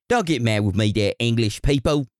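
hammed-up British accent; lightly put-on, clumsy British accent; mock British accent. Host placating a listener from England, in a mock British accent. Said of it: "best British accents, which you already got it from me".

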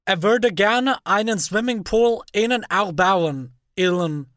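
slow, bad American accent; hammed-up American accent in German. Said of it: "unfassbar schlechten amerikanischen Akzent aufgesetzt".

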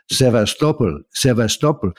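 SEVASTOPOL imitated as sev-as-TOP-ol; someone else's pronunciation. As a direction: say SEVASTOPOL the authentic-sounding way, stressing TOP. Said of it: "heard someone pronouncing it".

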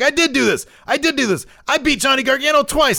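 very high, loud imitation of fired-up boasting; excited mock self-belief, almost squealed; all hyped up. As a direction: act out getting worked up, pitch way up. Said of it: "all hyped up. He's like".

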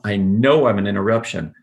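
"know" hammered in an even voice; hard, flat voice. Shown as a demonstration. Mentor quoting the caller's opener, hard and flat. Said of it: "in that hard, flat voice, hammering the word no".

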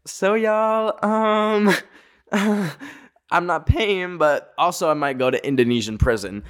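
high, giggly confession to friends; nervous laughing announcement. Retold or imitated. To friends at the villa, a high nervous giggle. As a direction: laugh through the bad news. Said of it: "and I'm like".

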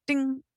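short ringing ding; quick message-tone ding; imitated text alert. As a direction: mimic a phone notification.

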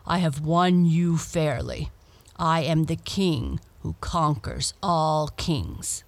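lightly voiced Death, triumphant; a hint of looming Death; grim reaper voice. Death claims the bride.

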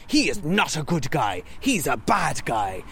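slow, weighty mock movie dialogue; deliberate quoted warning. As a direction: spell out the warning word by word. Quoting film's stern warning, word by word.

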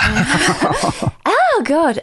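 a flustered laughing "oh God", pitch up; embarrassed laugh. Real, not acted. Laughing as she tells the host how they met. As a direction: laugh it off, caught off guard by emotion. Laughing through tears recalling friend.

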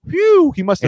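high burst of relief; relieved waking woman. Acted. Woman waking up unpunched, exaggerated high relief. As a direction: let out a high mock sigh of relief. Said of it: "they go".

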